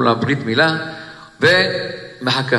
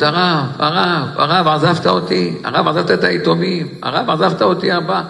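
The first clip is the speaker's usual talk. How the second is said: higher, stretched-out plea of a weeping widow; tearful lament; 4 semitones higher than usual. Retold or imitated. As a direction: draw out each cry to the rabbi, lightly acting the weeping. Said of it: "והתחילה לבכות ולבכות".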